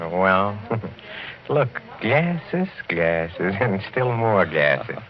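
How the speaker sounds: giddy, loud show-off of the glasses; tipsy delight. Acted. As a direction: savour each word, a little drunk. Tipsy host shows off glasses.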